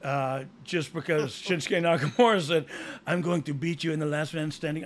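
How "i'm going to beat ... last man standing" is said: put-on lightly Spanish-accented wrestler quote; accidental Spanish accent. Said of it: "I don't know why I'm s-, Spanish speaking".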